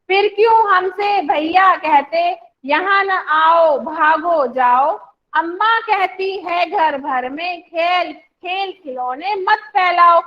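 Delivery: put-on slow, sing-song recitation of a children's poem; teacher leading a class poem reading. Shown as a demonstration. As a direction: recite it slowly, line by line, for the class to repeat. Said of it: "इसकी reading कर लेते हैं".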